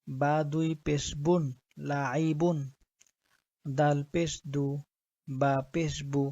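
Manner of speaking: measured, even-toned Quranic spelling drill; spelling-drill recitation. Shown as a demonstration. Teacher spelling Arabic words for learners, measured recitation. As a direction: spell out each letter and vowel, then join them steadily.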